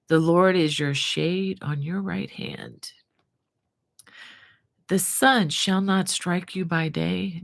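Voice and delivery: slow, measured psalm reading; scripture reading. Acted. Host reading Psalm 121 to her live viewers, slow and reverent. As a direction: read it like a devotion to comfort listeners.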